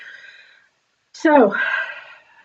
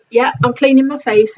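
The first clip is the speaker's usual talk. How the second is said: calling through a door; 3 semitones higher, 6 dB louder than usual. Retold or imitated.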